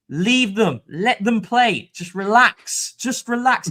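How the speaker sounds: high, loud, squeaky plea. Retold or imitated. Fan urging the crowd to let players play, squeaky voice. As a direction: plead high and squeaky, stretching the words. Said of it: "in my squeaky voice".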